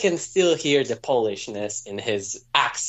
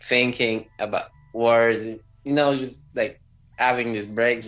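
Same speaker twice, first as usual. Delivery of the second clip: slowish, halting speaker; 3 semitones lower than usual. Retold or imitated. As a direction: imitate someone pausing to think of words. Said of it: "it was a little bit slowish".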